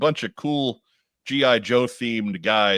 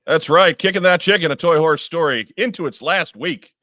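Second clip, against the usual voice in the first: excited announcer; 6 semitones higher, 6 dB louder than usual. Acted. Hyping the Kickstarter segment.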